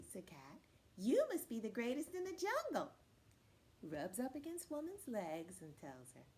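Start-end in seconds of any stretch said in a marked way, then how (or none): 1.0-2.9 high, lightly voiced admiring cat; flattering cat. Cat buttering up Woman, high and admiring. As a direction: lay on the praise, pitched up.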